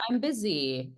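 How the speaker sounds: lightly acted brush-off, pitched high; mock busy protest. Imagined busy employee objecting.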